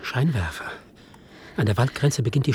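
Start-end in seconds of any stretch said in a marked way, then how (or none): 0.0-0.7 warnendes Flüstern. Acted. Warnt auf der Flucht.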